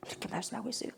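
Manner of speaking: hushed, breathless whisper; whispered in awe; awed whisper. Real, not acted. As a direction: let the awe drop to a whisper. Awed aside after the prayer.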